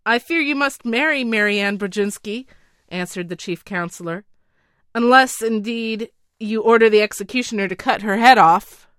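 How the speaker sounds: a flustered minister making excuses, talking fast and loud; nervous counselor. Acted. Counselor advises the king.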